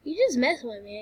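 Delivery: put-on high, loud, fast sassy girl; mock the patient brushing it off; hammed-up sassy patient. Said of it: "She's probably gonna be like".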